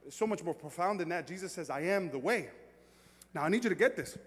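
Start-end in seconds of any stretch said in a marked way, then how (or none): 1.7-2.5 "the" in "I am the way" leaned on, definite; stress on THE. Shown as a demonstration. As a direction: land firmly on THE before "way". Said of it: "he's not saying, "I am a way".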